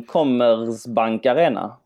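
slow, careful attempt at "Commerzbank Arena"; tentative pronunciation. Real, not acted. Co-host asks how the arena is pronounced, tentative slow attempt. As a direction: sound out "Commerzbank Arena" slowly, unsure how it goes. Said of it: "hur uttalar man den?".

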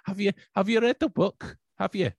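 high, loud, pleading Glasgow friend; mimicking Gillian. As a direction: mimic a friend nagging about the book. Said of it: "she'd be like".

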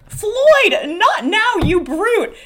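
high-pitched, theatrical squeal of protest; hammed-up indignant sweetheart; playful protest. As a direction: fend off an amorous boyfriend, loudly and high. Dora chased by amorous Floyd.

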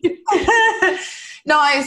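high laugh with a catch of tears; laughing tearfully. Real, not acted. Mother on the podcast trying not to cry, laughing tearfully. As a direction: laugh it off while close to crying.

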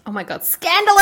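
mock scandalised shriek, high and loud; titillated. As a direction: gasp it like juicy gossip. Mock shock at dancing video.

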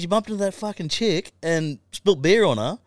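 high, hammed-up mate voice; mock indignant mate; mate explaining. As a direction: mimic the battered mate's complaint. Mate retelling the fight.

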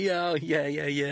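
een vleugje vrolijke dominee, iets hoger; cheerful yeahs. Retold or imitated. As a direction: lightly mimic a chuffed vicar agreeing. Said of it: "he's all cheers and happy".

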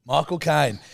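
lightly voiced cockney actor; Michael Caine. Shown as a demonstration. Conceding the point to the impressionist, light cockney impression. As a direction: say the name as the actor would. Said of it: "I'll give it to you".

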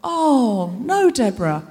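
pitying, falling "oh no"; mock sympathy. Comedian voices audience pitying her, mock sympathetic. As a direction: imitate an audience gushing with pity. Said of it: "You're gonna wanna go".

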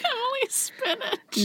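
repeats the name through a slow laugh; amused, drawn out, giggling. Real, not acted. Host laughing as she repeats the snake's name.

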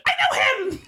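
excited yell of recognition; re-enacted yell. Recalling hearing his voice in Frozen two, re-enacted yell. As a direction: yell it out as you did on hearing the voice. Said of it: "I yelled out loud".

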